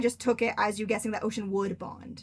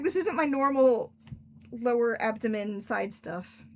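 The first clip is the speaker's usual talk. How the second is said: slow insistent; slower than usual. Retold or imitated. Retelling to Casey that the pain is unusual, slow and emphatic. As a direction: stress that this pain is new. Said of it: "I was like".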